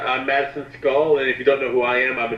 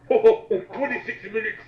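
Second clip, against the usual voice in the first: laughing through the words, higher and slow; can't stop giggling while reading; 9 semitones higher, 3 dB louder, slower than usual. Real, not acted. Friend reads the time through laughter.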